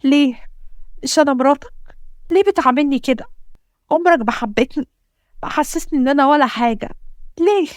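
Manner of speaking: tearful outburst. Acted. Wife's tearful outburst at husband.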